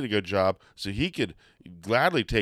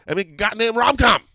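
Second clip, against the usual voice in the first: high, loud rallying cry; mock demand; 10 semitones higher, 6 dB louder than usual. Host demanding a rom-com for the wrestler, mock-insistent shout.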